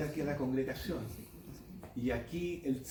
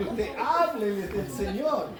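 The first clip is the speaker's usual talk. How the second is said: laughing through words; 4 semitones higher, 4 dB louder than usual. Real, not acted. Laughing while urging the listeners.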